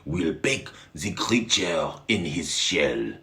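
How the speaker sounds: hammed-up hungry cheering; greedy excited shouting. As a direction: whip up the mob for dinner. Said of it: "The French were shouting".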